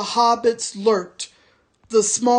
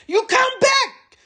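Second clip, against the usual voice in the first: orc shout. A narrator's reading. Soldier shouting after the departing tracker. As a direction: yell after him as he leaves. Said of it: "shouted the soldier".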